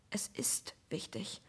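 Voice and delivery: slow hushed whisper through teeth; through gritted teeth. Acted. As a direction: force it out through clenched teeth. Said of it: "zwischen zusammengepressten Zähnen hervor".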